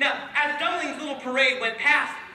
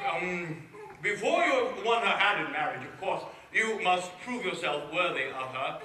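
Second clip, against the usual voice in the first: lower, hesitant royal voice; a horrified king stalling for time; king's voice; 6 semitones lower than usual. Acted. The king stalling Dumpling before setting a test, in a lower voice. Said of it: "he said".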